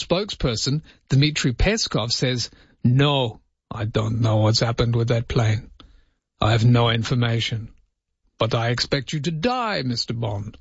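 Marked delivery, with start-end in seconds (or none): 2.8-10.6 a hint of a hammed-up Russian accent, lightly done; mock Russian accent. Host mimics Putin's spokesperson denying the flight, light mock Russian accent. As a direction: play a Kremlin spokesman in a half-hearted Russian accent. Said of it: "my accent wasn't quite Russian enough".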